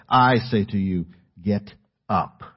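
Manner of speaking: "I" stressed and drawn out, then "get up" set apart; weight on "I", slow and deliberate; authoritative command. Retold or imitated. Jesus commanding the dead girl, authoritative stress on "I". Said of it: "personal authority over death".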